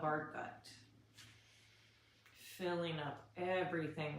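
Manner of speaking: soft, unhurried breathing guidance; guided body scan. Shown as a demonstration. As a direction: guide them calmly through deep breaths.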